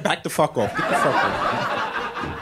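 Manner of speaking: hushed, slow voiced gum; gum character. Gum piece refusing to come out, hushed. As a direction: hiss it as the stubborn gum. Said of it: "the gum like".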